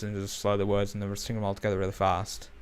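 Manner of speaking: fast, slurred Bolton accent with the words run together; quick Bolton slur. Shown as a demonstration. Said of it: "Bolton people talk like this".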